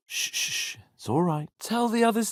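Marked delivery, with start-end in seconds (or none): 0.1-0.8 soft unvoiced shushing; hushing. Real, not acted. Hushing a companion, soft unvoiced shushing. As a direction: hush them gently, breath only.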